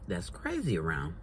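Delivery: food in mouth; chewing between words; talking while chewing. Real, not acted. Seen 2: Lips pressed and working between words; she eats before and after.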